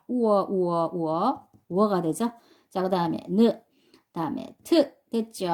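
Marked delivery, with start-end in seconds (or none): 0.1-1.5 우어 glided together as one sound; blended sound demo. Shown as a demonstration. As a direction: run 우 into 어, 우어 as one syllable. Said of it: "우하고 어 하나의 소리로 내보세요".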